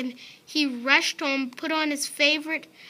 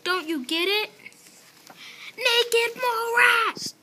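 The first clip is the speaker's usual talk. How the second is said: indignant shout; 10 semitones higher than usual. Acted. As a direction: spell it out at full volume. Mole rats scold Wilbur.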